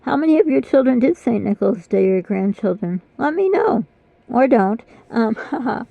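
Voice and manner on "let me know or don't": a playful jab at the viewers; sarcastic. Real, not acted. Vlogger teasing her viewers, sarcastic. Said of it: "being a little sarcastic there".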